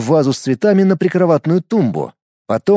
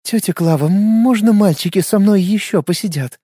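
sweet voice; 6 semitones higher than usual. A narrator's reading. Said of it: "милым голосом спросила Надежда".

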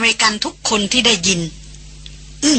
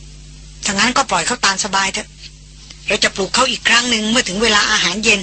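flat calm voice. Acted. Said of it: "คริสบอกเสียงเรียบๆ".

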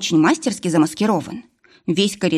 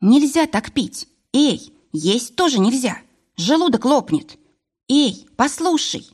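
high, slow, drawn-out alarm; worried warning; 6 semitones higher, slower than usual. A narrator's reading. Varvara to Vlas gulping water, worried warning. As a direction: call out to stop him in concern. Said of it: "забеспокоилась Варвара".

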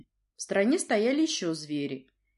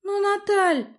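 much higher, louder protest; desperate girl; 8 dB louder, slower than usual. A narrator's reading. Princess desperately defends her friend, crying out.

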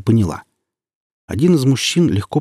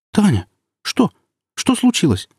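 a frightened mother just coming round; mother asks her daughter what happened; dazed fright; 12 semitones higher than usual. A narrator's reading.

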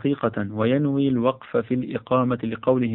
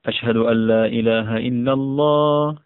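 raised voice. Shown as a demonstration. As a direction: lift the voice and call it out. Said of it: "فيرفع صوته بهما". (برفع الصوت عاليًا)

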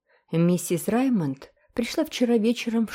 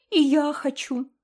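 higher, eager little exclaim; 8 semitones higher than usual. A narrator's reading. Girl joining her brother with an eager exclaim. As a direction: blurt it out eagerly. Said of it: "воскликнула Джеральдина".

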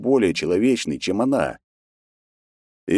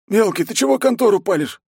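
indignant; 4 dB louder than usual. A narrator's reading. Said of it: "по-русски возмутился Войт".

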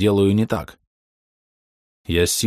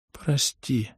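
weak murmur; 5 semitones higher, 5 dB quieter than usual. A narrator's reading. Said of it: "с трудом пробормотала".

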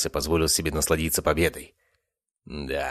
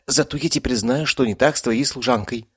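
high, smug cat voice; bare a grin through the words; grinning cat; 7 semitones higher than usual. A narrator's reading. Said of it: "оскалился Мот". (с оскалом, самодовольно)

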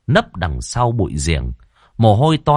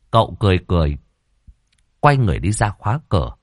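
ordinary delivery

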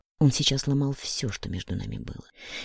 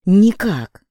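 «Никак» yelled far louder and higher; shout; 7 semitones higher, 11 dB louder than usual. A narrator's reading. Woman screams «Никак» while trying to break free. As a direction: scream the denial out. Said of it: "Я кричу".

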